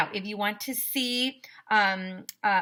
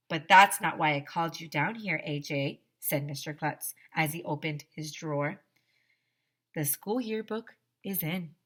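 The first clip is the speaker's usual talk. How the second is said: put-on lively read-aloud to children; children's book read-aloud voice; story narration. A narrator's reading. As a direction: read the story to a class, playing the characters.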